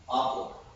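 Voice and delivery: "apple" with a soft British ah, half-whispered. Shown as a demonstration. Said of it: "They're gonna say like the um".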